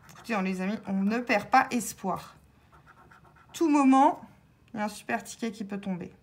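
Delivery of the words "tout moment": hopeful burst. Real, not acted. Rallying viewers not to lose hope.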